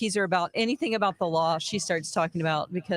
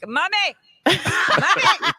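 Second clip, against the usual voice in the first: put-on whiny kid voice; 8 semitones higher, 7 dB louder, much slower than usual. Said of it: "he's gonna be like".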